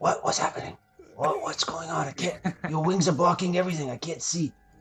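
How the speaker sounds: quick, quiet whispering. Unable to see past Lucius's wings, a character keeps whispering to him. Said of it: "And I keep whispering to uh".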